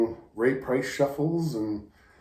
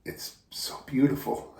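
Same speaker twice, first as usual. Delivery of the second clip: choked up; 4 dB quieter than usual. Real, not acted. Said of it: "I'm getting emotional".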